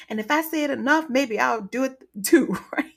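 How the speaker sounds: usual speaking voice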